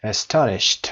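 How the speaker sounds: astonished ending in a T sound; final D as T. Shown as a demonstration. Teacher showing the ending, astonished with final T. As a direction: say the last D of astonished as T.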